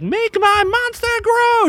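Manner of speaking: very high, slow cackling villain cry; Rita Repulsa villain. Retold or imitated. Retelling the Power Rangers movie, shrieking villain voice. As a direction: ham up the evil queen's command. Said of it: "Rita Repulsa goes".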